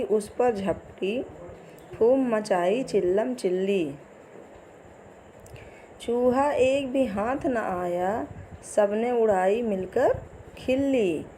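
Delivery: put-on slow sing-song poem reading for kids; poem recitation. Teacher reciting a poem to young pupils, sing-song. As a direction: recite the rhyme slowly for children.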